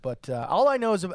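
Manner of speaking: ordinary talk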